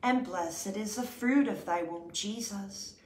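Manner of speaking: steady devout recited prayer; prayer recitation. Acted. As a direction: pray it aloud in an even reverent rhythm. Recited Hail Mary and Glory Be.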